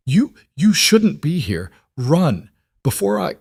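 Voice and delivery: a hint of icy, strained man; urgent, cut off warning; strained cursed voice. A narrator's reading. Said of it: "His voice was layered with ice".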